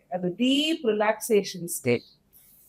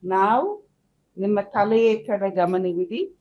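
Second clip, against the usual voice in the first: measured body-scan guide, long pauses; guided meditation; faster than usual. Acted. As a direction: lead them calmly from breath to body.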